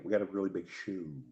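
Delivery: lightly voiced old TV host impression; a hint of a showman's announcement; Ed Sullivan. Quizzing co-host on who it is, lightly hammed impression. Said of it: "Could be a bad impression".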